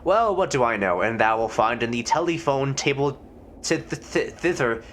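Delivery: mild hammed-up Elizabethan gentleman; archaic formal. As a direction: press for the signature with mock courtesy. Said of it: "talking like this".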